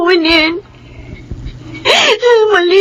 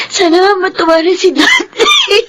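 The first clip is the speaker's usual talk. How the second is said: nanginginig sa iyak habang umaasa; naiiyak na pag-asa; 3 semitones higher than usual. Acted. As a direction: sabihin nang halos umiiyak. Hoping father will be happy. (naiiyak na pag-asa para sa daddy)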